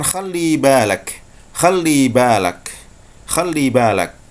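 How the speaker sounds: slow Egyptian Arabic warning; Egyptian Arabic accent. Shown as a demonstration. Teacher showing students the Egyptian way to say watch out. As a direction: caution them like an Egyptian. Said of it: "Orang Mesir akan mengatakan".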